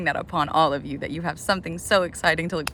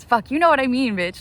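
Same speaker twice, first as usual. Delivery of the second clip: louder, higher burst at her own mix-up; frustrated outburst; 7 semitones higher, 5 dB louder than usual. Real, not acted. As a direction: snap out at her own slip-up. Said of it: "I said that backwards".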